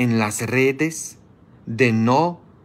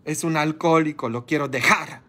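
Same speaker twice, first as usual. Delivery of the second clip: mock weeping wife; 8 semitones higher than usual. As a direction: play the crying wife complaining about her drunk husband. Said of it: "toda llorando".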